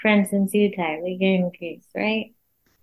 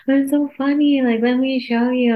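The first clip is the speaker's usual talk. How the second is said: higher-pitched, amused insistence; mock-eager, raised pitch; eager husband; 5 semitones higher than usual. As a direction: plead eagerly, imitating an excited husband.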